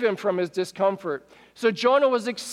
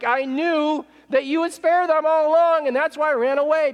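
higher, mildly indignant outburst; mock-aggrieved protest in a higher voice; exasperated complaint; 7 semitones higher than usual. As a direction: complain in a raised pitch, as if wronged. Acting Jonah's angry complaint to God.

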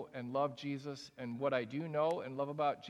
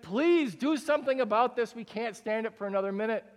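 exasperated plea; 4 semitones higher, 4 dB louder than usual. Acted. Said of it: "they're like".

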